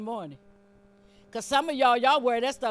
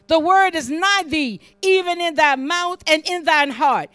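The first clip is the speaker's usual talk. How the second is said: loud, raised, deliberate scripture preaching; full-force preaching; 5 semitones higher, 9 dB louder than usual. Real, not acted. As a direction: proclaim each phrase loudly, with weight.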